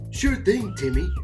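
squeaky high barber voice; high-pitched sidekick. Acted. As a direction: pipe up in a high voice. Floyd character replies to Timmy.

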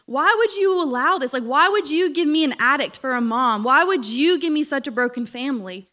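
raw, pleading reproach to God; angry prayer. Retold or imitated. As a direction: cry out at God, hurt. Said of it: "I was so mad at God".

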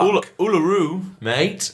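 exaggerated Australian trigger phrase; attempted Australian accent. Shown as a demonstration. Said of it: "How do you do an Australian accent?".

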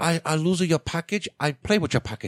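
high, loud put-on clerk voice; mock clerk voice. Mocking the post office worker to friends, high and loud. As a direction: ham up a careless clerk teasing a customer.

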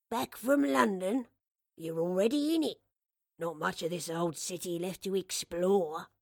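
put-on slow, mildly baffled old shopkeeper; lightly voiced puzzled old man. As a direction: gently query it as an old man.

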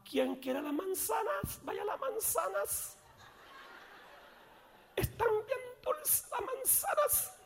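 high, soft, slow sing-song street vendor call; mock effeminate voice. Man selling apples in Escuintla, in a mock effeminate high soft voice. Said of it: "el tipo fingiendo la voz".

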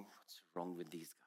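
hushed, breathy whisper of disbelief; a private whispered aside; whispered thought. Retold or imitated. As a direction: mutter it under your breath, baffled. Inner thought while people pray.

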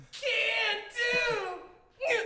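eager high-pitched yes; Mister Meeseeks. Acted. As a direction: shout it like a thrilled servant. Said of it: "Meeseeks comes up and goes".

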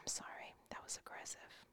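whispered apology, no voice; sheepish whisper after the outburst. Real, not acted.

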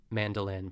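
"mandolin" with an extra N; mispronounced madeleine. Shown as a demonstration. Host showing the tempting wrong word, "mandolin" with an N. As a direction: say "mandolin" as MAN-duh-lin, N before the D. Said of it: "very tempting to say".

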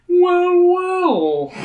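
high, loud fatherly greeting; fatherly man. Acted. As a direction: greet them like a friendly father. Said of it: "giving you a fatherly smile".

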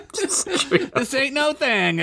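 slow drawn-out high bravado; fake nonchalance. Derek shrugs off the heavy gem, slow and cocky. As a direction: drag it out cocky. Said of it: "faking confidently".

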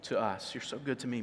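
tender prayer of thanks, fading; grateful believer praying in good times, softly. Retold or imitated. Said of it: "it's really easy to say".

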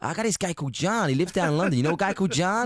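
lightly mocked American accent, slightly lifted; imitated American. Singer mimicking an American he met, lightly imitated American. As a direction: do a chatty American tourist impression. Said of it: "what I love about Americans".

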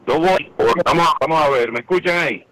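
choppy call audio cutting out; tinny distant phone voice; breaking up phone line. Real, not acted. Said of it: "se oye muy cortado".

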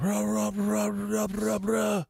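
high wordless cartoon rant; mock angry ranting. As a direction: imitate your own furious babble on the phone. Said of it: "I was so angry".

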